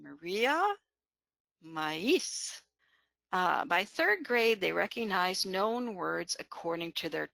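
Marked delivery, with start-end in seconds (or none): 0.0-0.6 "Maria" with a separate, stressed I; broken diphthong. Shown as a demonstration. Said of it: "break a diphthong in known words". 1.6-2.6 "maíz" in two syllables, stressed Í; broken diphthong. Shown as a demonstration. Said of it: "break a diphthong in known words".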